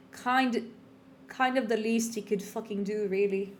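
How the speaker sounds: put-on light British accent reading the line. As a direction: read the quote in a British accent. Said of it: "my, uh, British voice".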